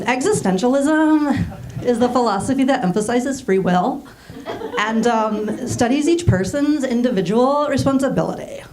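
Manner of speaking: creaky fry dragging the ends of words down, with lifting endings; mock valley-girl uptalk with vocal fry. Shown as a demonstration. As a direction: say something smart in a fried, question-like voice. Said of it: "what would it sound like if women said intelligent things in these voices".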